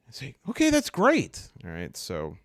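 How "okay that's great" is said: high, loud, pleased acceptance; eager agreement. Acted. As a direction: jump at the offer. Delighted she may share room.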